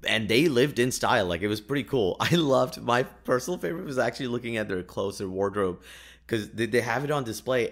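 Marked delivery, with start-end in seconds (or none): none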